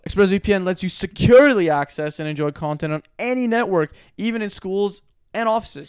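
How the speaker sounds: scripted ad delivery, pitched a touch up; sponsor read. Acted. Co-host selling secure access to listeners, ad-read delivery. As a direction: read it out with emphasis on key features.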